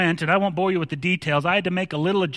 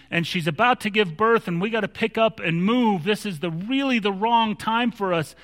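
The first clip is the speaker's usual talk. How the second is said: mildly put-upon protest, pitched higher; exasperated complaint; 4 semitones higher than usual. Acted. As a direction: complain to the ruler who upended your plans. Imagined complaint of Joseph and Mary.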